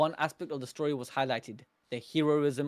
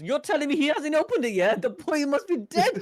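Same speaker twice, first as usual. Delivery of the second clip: lightly voiced crewmate; 10 semitones higher, 5 dB louder than usual. Voicing a crewmate in the anime.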